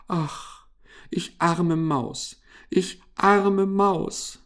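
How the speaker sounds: high, slow mouse wail; plaintive lament. A narrator's reading. Mouse lamenting after hamster's refusal, wailing. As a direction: draw out the self-pity, high and slow. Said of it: "klagte Mariechen Knusperkorn".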